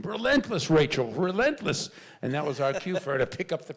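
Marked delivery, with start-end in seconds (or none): 0.0-1.9 imitated sideline scream. Dad urging his lazy daughter on at soccer, imitated scream. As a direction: holler it up high to a player on the field. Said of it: "I would scream".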